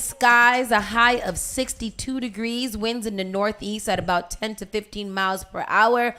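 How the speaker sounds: slow, drawn-out forecast read; weather announcer. Acted. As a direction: read it like a radio weather report.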